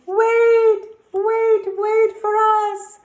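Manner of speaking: high, loud calling after them. A narrator's reading. Ladies chasing the others, high loud calling. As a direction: shout after them to wait.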